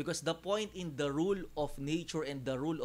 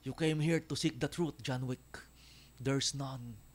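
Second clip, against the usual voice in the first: villain impression; slower than usual. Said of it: "Ganun yung boses ni Marquis de Gramont".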